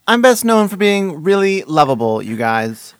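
put-on high Valley girl voice. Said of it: "I talk like a Valley girl?".

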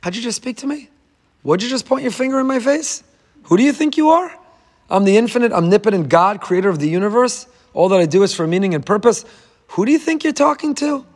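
high, indignant divine rebuke; stern rebuke. Retold or imitated. Hashem rebukes Moshe with a stern, indignant voice. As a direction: put him in his place, mock stern. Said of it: "Midas Hadin, Name Elokim".

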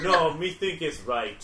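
loud, slow, dim goblin grunt. Acted. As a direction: play a dumb goblin insisting. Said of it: "I was doing a goblin voice".

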